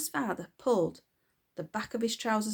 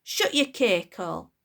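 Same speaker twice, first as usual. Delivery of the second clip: loud, rude snap; bratty girl snaps rudely; snapped; 6 dB louder than usual. Acted. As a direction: bite it off at mother. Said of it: "snapped the girl".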